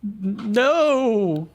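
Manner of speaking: high, stammering little creature; meek voice. Acted. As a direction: timidly bargain to be left alone, pitched high. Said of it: "this meek voice".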